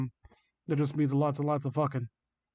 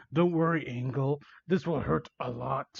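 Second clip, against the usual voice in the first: slightly lowered villain voice; falsely soothing, sinking quieter; sinister reassurance; 3 dB quieter than usual. Acted. Villain reassures victim before hurting, quietly sinister.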